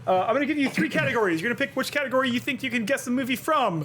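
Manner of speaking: fast, lightly hyped barker pitch; a hint of a fairground barker selling the game; carnival barker. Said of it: "You're doing a whole carnival barker thing".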